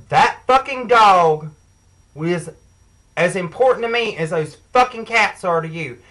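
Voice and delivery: loud, slowed punch on that fucking dog; snapping back at him, a touch heated; retold angry outburst. To the tenant about her lost dog, retold loud angry outburst.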